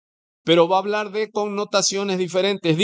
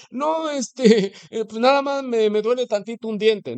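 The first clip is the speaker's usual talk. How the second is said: higher, embarrassed little laugh; downplaying patient; 6 semitones higher than usual. Man at the doctor hiding how sick he is, sheepish and higher. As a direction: brush off the pain sheepishly. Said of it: "Dice por ahí sarcásticamente".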